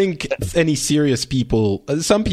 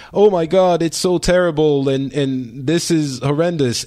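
mock dismay; 4 semitones higher than usual. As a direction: imitate people wailing over a disaster, lightly. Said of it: "we're all like".

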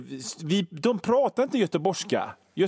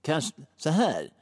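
posh Per Gyllenhammar accent; 4 semitones lower than usual. Shown as a demonstration. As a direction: sound like a Swedish business magnate. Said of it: "när jag försöker ha den Per Gyllenhammar, eh, dialekten".

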